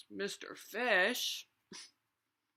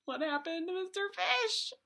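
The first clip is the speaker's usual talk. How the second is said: excited alarm; 10 semitones higher, 5 dB louder, faster than usual. Pretend. Storyteller gasps at sad fish.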